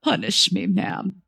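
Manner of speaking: understated plea from the manager; a touch of begging, lightly acted; pleading. A narrator's reading. Sobbing manager begs the customer for punishment, mildly pleading. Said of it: "He looks me in the eyes and pleads".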